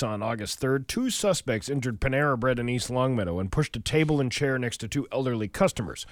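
radio newscaster voice; news read. Acted. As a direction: read the headlines steadily. Reads the local news.

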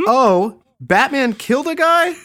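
high, squeaky mock gasp at "Batman killed a guy"; mock naive fan. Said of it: "Someone says to me, like".

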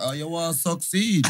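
low retold question leaning on "succeed"; stress on succeed. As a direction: put the emphasis on "succeed", drawn into a mock query. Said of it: "Man said it with emphasis".

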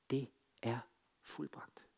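dying, breathless whisper; Jesus's last words, barely whispered. Acted.

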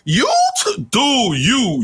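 high, halting stammer lost for words; mock spluttering. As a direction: stutter like he can't find words. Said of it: "It was like this".

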